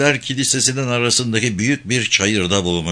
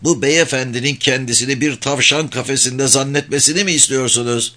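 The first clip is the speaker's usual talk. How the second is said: scolding; 5 semitones higher than usual. Acted. Old man scolding the women.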